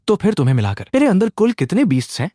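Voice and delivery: mildly nervous, high-pitched question; fearful. A narrator's reading. Boy asking how many beasts are inside, mildly fearful. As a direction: ask with a touch of dread. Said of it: "मैंने डरते डरते पूछा".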